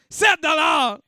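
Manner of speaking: loud bid called out to the room; auction call. Real, not acted. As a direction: shout the price over the crowd. Auctioneer calling out bids. (crier fort la mise)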